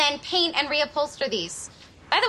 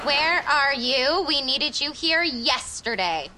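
slow, emphatic boss dictation; bossy all-caps; slower than usual. Acted. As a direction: spell out the demand slowly, like a boss. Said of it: "'cause boss is talking caps".

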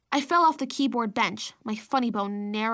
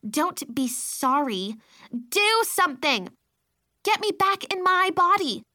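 put-on high, loud toddler screech; a tiny girl shrieking demands; 6 semitones higher, 4 dB louder than usual. A narrator's reading. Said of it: "Baby Sophie was screeching now".

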